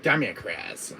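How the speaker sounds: lightly voiced villain annoyance; mild mock exasperation; a hint of the thwarted villain; Wesker. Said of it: "my R E five impression".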